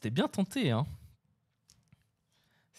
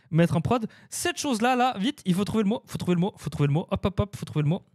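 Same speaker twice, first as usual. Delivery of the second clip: 1 excited rush; 5 semitones higher than usual. Real, not acted. Racing to find the word.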